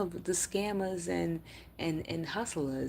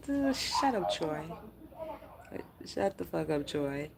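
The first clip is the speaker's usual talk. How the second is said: mock snap; 2 semitones higher than usual. Real, not acted. Snapping at a commenter.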